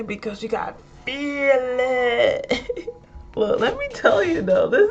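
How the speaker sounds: hammed-up sermon cry; mock preacher.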